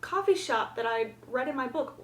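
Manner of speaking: lightly hammed-up gushing; imitated excited exclamation. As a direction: mimic the main character's excited discovery. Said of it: "when she's talking about".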